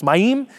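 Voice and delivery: "Mayim" stressed on its second syllable, rising. Shown as a demonstration. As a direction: land on the end of "Mayim". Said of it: "the emphasis is on the second syllable".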